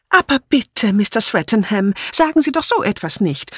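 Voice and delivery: very high, whiny protest; tearful pleading. A narrator's reading. Dora begging Edmund not to talk of murder, tearful. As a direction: plead as if close to tears. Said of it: "rief Dora Banner weinerlich".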